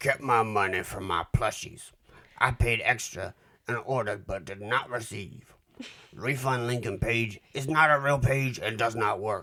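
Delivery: put-on angry old man shouting. Reading a bad review aloud as a cranky old man, yelling. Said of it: "Why is he yelling?".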